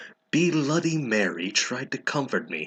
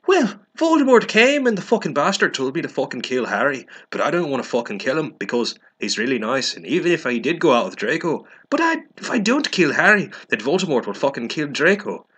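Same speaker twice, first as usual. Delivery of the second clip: higher, faster, hammed-up wailing; mock sobbing rant; 6 semitones higher, 4 dB louder, faster than usual. Ebony explains Voldemort's order, hammed-up tearful wailing. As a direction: blubber it out like a melodramatic teen. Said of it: "I burst into tears".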